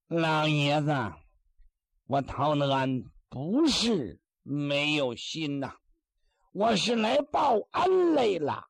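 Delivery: lightly voiced sly Taoist, slow and pleading; fawning Taoist. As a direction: play the sly Taoist laying on fake gratitude. Taoist pleads to the old man. (略带腔调的老道，慢声哀求)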